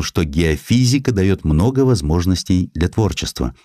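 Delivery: ordinary delivery, nothing marked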